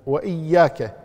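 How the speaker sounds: وإياك with the ya firmly geminated; doubled ya. Shown as a demonstration. Teacher counting shaddas, doubled ya in وإياك. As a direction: hold the "yy" of وإياك. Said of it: "مشددة".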